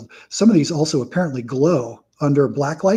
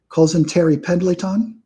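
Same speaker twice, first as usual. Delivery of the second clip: lightly put-on Balky accent, stretched vowels; a touch of Balky's sitcom accent; Balky accent impression; 4 semitones higher than usual. Card collector riffing on a sitcom, mock Balky accent. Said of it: "that's a Perfect Strangers reference when I do that".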